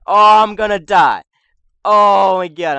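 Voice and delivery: loud, high panicked cry; panicked yell. Real, not acted. Both jump each other.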